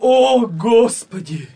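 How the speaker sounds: loud, slow cry to God; anguished cry. Acted. Anguished cry at coming execution.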